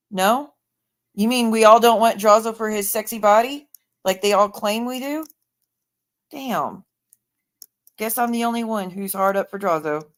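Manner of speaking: mock-disbelieving, understated sarcasm; dry, playful sarcasm; sarcastic. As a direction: feign surprise that nobody shares the crush. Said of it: "I'm being sarcastic".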